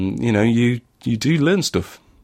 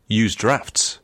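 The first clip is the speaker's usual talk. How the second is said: radio voice. Shown as a demonstration. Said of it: "That was my radio voice".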